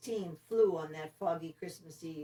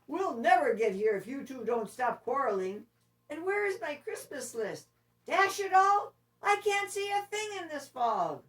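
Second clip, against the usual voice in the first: much higher and louder exasperated Santa; cross Santa; 8 semitones higher, 6 dB louder than usual. Acted. Santa scolds the quarreling reindeer, loud and cross. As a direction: blow up at the quarrel. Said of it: "Even Santa was cross".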